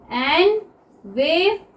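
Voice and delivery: envelope said very slowly; teacher slowing the word; slow demo. Shown as a demonstration. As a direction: stretch envelope for learners. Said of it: "बोल के देखिए एनवेलप को".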